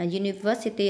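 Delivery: "university" stressed on the third syllable. Shown as a demonstration. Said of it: "âm ba".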